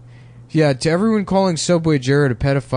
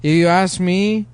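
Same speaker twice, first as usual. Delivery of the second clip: silly put-on voice. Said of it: "a guy that talk like this".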